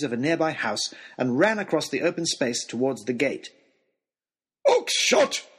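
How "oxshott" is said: a far higher, louder bellow of Oxshott; bellowed name. A narrator's reading. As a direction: call him across the square, full voice. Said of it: "bellowed Lord Daunt".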